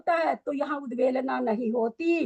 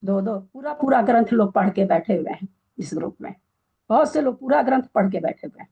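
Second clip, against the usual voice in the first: louder, exasperated complaint; raised voice of a fed-up teacher; 5 semitones lower, 5 dB louder than usual. Real, not acted. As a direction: let the frustration out, louder and quicker.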